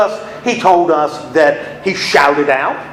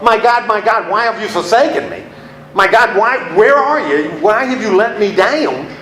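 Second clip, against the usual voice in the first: anguished cry; 3 semitones higher than usual. Acted. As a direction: cry out as if abandoned. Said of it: "says his last words are".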